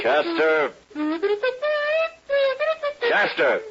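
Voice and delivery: impatient shout for his deputy; calling out. Acted. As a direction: call him back sharply. Marshal calling his deputy over.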